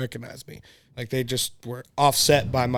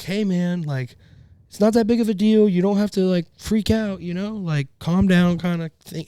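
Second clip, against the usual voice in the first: Ruben's calming words; 6 semitones higher than usual. Retold or imitated. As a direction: play the friend talking him down. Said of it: "Ruben was like".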